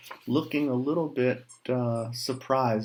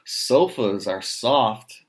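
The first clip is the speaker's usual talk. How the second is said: pig voice; 7 dB louder, slower than usual. Acted. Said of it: "says the small pig".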